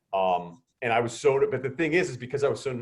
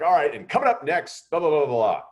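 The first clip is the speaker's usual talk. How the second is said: rushed nervous host; 6 semitones higher, 6 dB louder than usual. Retold or imitated. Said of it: "I talk a million miles an hour".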